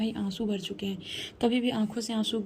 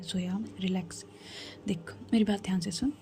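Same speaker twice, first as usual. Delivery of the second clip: soothing; 3 semitones lower, 6 dB quieter than usual. Acted. Mother calming crying daughter.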